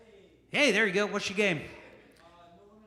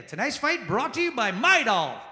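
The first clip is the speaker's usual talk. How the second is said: announcer voice; 4 semitones higher than usual. Retold or imitated. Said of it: "announcer again".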